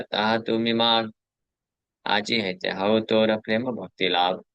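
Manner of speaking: slow, measured scriptural recitation; verse recitation. Acted. Preacher reciting the verse of Jagai being saved, slow recitation. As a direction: draw out each line of the sacred verse.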